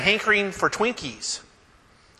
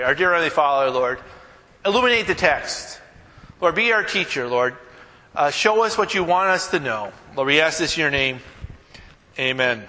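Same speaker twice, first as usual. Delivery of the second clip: prayer; 2 semitones lower than usual. Acted. Pastor praying before the sermon, hushed and humble. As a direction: pray humbly to open the text.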